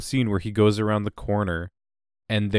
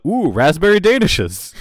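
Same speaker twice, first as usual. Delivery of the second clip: high, loud sudden delight; excited squeal over a snack; delighted gasp; 9 semitones higher, 8 dB louder than usual. Retold or imitated. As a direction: spot the pastries and light up. Walter voiced spotting snack.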